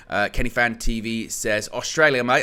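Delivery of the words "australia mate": half-hearted attempt at an Australian accent; badly faked Aussie twang. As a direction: try an Aussie accent and don't quite land it. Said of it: "I'm not very good at accents".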